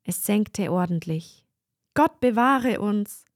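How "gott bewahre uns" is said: loud, slow cry of alarm; frightened cry. A narrator's reading. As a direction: shriek it out in fright. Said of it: "schrien die Fräulein".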